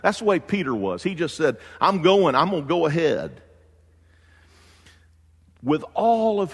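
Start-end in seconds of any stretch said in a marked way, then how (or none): 1.8-3.4 eager shout. Pretend. Peter eager to rush ahead.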